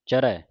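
ਚਰੈ with a heavy open -ai ending; weight the end of ਚਰੈ as an open "ai"; heavy final vowel. Shown as a demonstration. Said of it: "ਭਾਰਾ ਕਰਕੇ ਬੋਲਣਾ ਹੈ".

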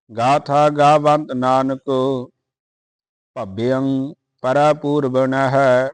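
measured, chanted Gurbani reading; steady devotional recitation; scripture recitation. Acted.

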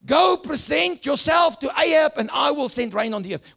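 lightly voiced divine command; clear voice of God. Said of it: "is that a clear voice".

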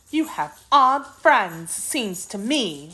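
high, slow, sulky kitten voice; surly kitten. A narrator's reading. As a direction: drawl it sulkily in a high kitten voice. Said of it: "replied the kitten in a surly tone".

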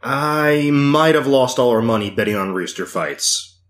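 ordinary talk, nothing marked

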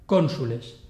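Cónsules stressed on the first syllable, CON; proparoxytone stress. Shown as a demonstration. Teacher giving an example, first-syllable stress in Cónsules. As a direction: hit CON in Cónsules, then two light syllables. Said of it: "la palabra es esdrújula".

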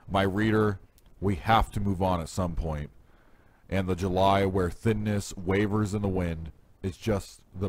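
measured, declaimed verse with pauses between phrases; poem reading. Acted. Poet reading a sonnet to listeners, measured recital. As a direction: land each phrase, then pause. Reads own sonnet aloud.

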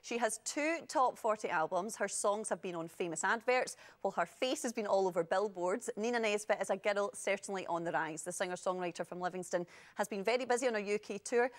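brisk presenter's news bulletin delivery; polished scripted news voice; entertainment news read. Real, not acted. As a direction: read the showbiz headlines to camera. Reads entertainment news and introduction.

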